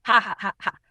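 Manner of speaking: loud canned laughter; ha-ha it like a studio audience; laugh track. Acted. A sitcom laugh track answers the greeting, laughing loudly. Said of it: "Auto laugh track returns harder".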